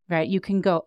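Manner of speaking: ordinary talk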